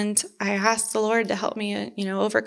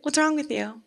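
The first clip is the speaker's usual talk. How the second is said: coworkers' concern; 4 semitones higher than usual. Retold or imitated. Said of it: "they were kinda like".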